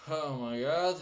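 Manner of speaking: talking through a yawn. Real, not acted. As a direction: say it mid-yawn, mouth stretched. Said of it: "I'm sorry for yawning".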